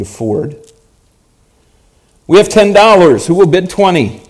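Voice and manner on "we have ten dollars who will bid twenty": auctioneer calling bids. Acted.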